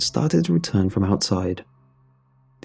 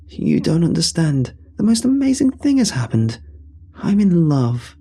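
high-pitched excited plea, slowing on the last words; vibrant; 8 semitones higher than usual. A narrator's reading. Dave announcing he has found love, vibrant and high. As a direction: voice the character's excitement, pitched well up. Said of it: "a vibrancy to his tone now".

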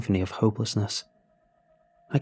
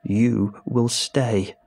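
witch scream; much slower than usual. Acted. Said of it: "and screamed".

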